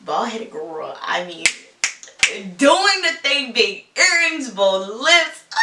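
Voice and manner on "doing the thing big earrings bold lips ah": excited. Real, not acted. Excited gushing over a woman.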